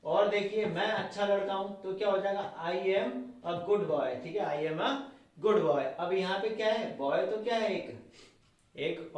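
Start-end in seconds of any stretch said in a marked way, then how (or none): 2.6-4.1 slow dictation. Shown as a demonstration. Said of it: "model sentence dictated slowly".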